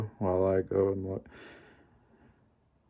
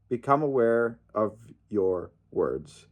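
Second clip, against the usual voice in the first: "Become aware of your words" again, softer and slower, leaning on "Become"; quiet slow repeat; 6 dB quieter than usual. Shown as a demonstration. Repeating the lesson to fans, softly and slowly. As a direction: let it sink in, soft and slow. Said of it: "That's the point, guys".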